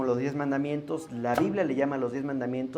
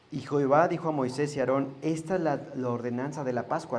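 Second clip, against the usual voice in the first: scripture reading. Acted. Reads Exodus aloud.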